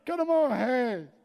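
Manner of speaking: lamento berrado, muito agudo e teatral; gritaria fingida. Acted. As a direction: desespero caricato, chorando aos gritos. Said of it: "começou a gritar". (berreiro de drama exagerado)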